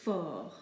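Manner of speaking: FORT drawn out as "for"; silent T. Shown as a demonstration. Teacher telling learners to ignore it, silent T. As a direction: say FORT as if spelt F O R. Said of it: "pretend that there's an F O R".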